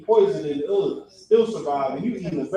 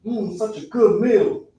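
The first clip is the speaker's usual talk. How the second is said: mock relish; slower than usual. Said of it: "who look at squid and be like".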